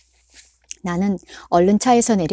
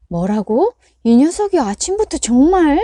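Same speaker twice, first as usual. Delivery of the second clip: exasperated; 7 semitones higher, 6 dB louder than usual. A narrator's reading. Mother exasperated.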